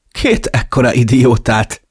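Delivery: a touch of amused laughter; laughing. Acted. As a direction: chuckle at the two fools. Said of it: "nevette el magát".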